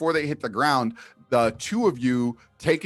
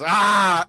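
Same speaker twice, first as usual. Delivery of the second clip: exasperated cry; 6 semitones higher, 6 dB louder than usual. Acted. Bet loser storms off exasperated.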